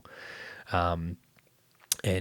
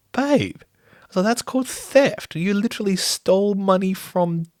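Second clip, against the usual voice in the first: higher and louder, slow stern disbelief; shocked scolding; 10 semitones higher, 6 dB louder, slower than usual. Retold or imitated. Dad telling daughter she stole, appalled high scolding. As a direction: spell out the wrongdoing, appalled.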